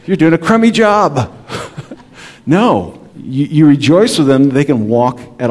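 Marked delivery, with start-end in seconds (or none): 0.1-1.3 mock harsh criticism.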